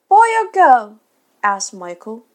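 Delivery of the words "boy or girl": put-on high, loud little-boy question; small child's voice, pitched way up; not too hopeful child. A narrator's reading. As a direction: ask as an unsure small boy. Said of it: "not too hopefully".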